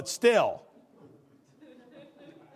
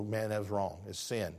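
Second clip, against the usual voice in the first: sincere apology; 6 semitones lower, 5 dB quieter than usual. Shown as a demonstration. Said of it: "Apologize and go".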